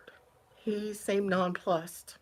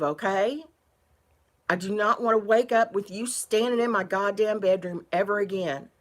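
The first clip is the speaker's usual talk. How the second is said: louder, stern telling-off with swearing; angry warning; 5 dB louder than usual. Retold or imitated. Tenant warning the exterminator off her bedroom, loud and stern. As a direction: lay down the law, furious. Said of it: "and I told him".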